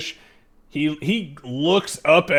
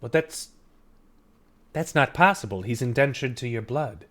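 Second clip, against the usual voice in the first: disbelieving father. Acted. Father reacting to daughter's confession.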